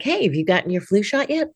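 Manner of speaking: friendly phone reminder. Shown as a demonstration. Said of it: "use it to call patients".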